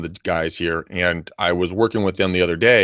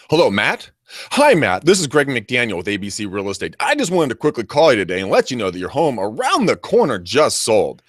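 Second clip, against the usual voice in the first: telemarketer pitch. Shown as a demonstration. Caller reads a canned pitch to a homeowner, slick and rehearsed. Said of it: "it sounds like this".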